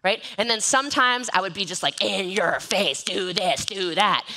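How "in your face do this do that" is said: slow, pushy in-your-face orders; mock aggressive. Mocking her old pushy posts to followers, slow and in-your-face. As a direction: boss them around, slowly. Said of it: "a little aggressive".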